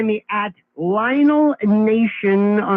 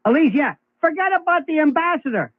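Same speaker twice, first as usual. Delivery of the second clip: higher-pitched imitation of a boss waving it away; mock dismissal; 6 semitones higher than usual. Boss tells Elise to forget the ambassador job, mock dismissal. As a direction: brush her off, voice raised in pitch. Acting out boss reassigning nominee.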